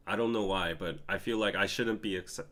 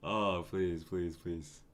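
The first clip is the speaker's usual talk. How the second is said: tearful pleading; 3 semitones lower, 5 dB quieter, much slower than usual. Real, not acted. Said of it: "I might tear up".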